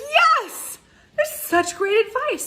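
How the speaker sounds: high, loud and slow, bursting with delight; gushing praise. Real, not acted. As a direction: coach raving to viewers about Ted's advice, high and loud. Gushing over Ted's advice.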